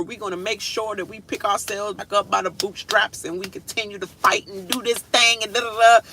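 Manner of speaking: mock rousing speech. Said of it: "he's like".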